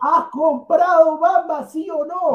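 drawn-out pressing question; insistent demand. Real, not acted. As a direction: corner him with the question. Repeated demand, louder, slow.

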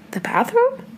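high whispered question; spooked whisper. Real, not acted. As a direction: whisper the guess nervously. Wondering about the strange noise.

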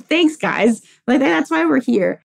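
high-pitched mock gratitude; sarcastic thanks. To hospital staff repeating the known diagnosis, sarcastic. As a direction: thank them as if they stated the obvious.

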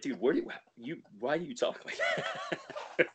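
high, slowed question breaking into laughter; laughing mock question. Reacting to own redneck impression, high and laughing. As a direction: ask in mock bafflement, laughing.

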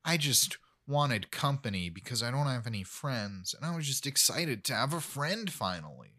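soft, small lonely dog voice; a meek pup with no friends; sad little dog voice. Retold or imitated. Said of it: "The Chihuahua goes".

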